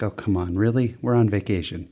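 mock whiny groan, low and soft; kids whining. Parent imitating kids groaning about summer schoolwork, mock whine. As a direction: lightly voice a reluctant kid's complaint. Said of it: "Other times it's like".

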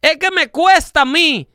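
voicing an aggrieved industry boss; indignant complaint. Insurer complaining to tobacco industry.

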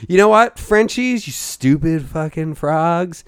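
hammed-up yelling rant; mock-angry outburst at the French; playfully furious rant; mock tirade.

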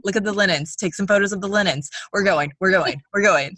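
brisk tour guide hurrying folks. Pretend. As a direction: herd the group along. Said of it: "and he's like".

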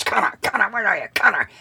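high mock calling; imitating a fuming boom operator calling. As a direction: pitch up, hunting for Connor. Fuming boss calling for Connor.

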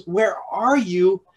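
slow, carrying call. Acted. God calling to those he calls his own, slow and open. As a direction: reach out across the distance, openly inviting.

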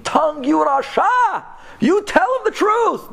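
furious scream. Acted. Body screaming at the stubborn tongue, furious. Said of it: "The body starts screaming".

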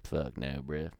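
mock Canadian redneck refusal. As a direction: put on a Canadian redneck accent. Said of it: "Would you like to interview this man?".

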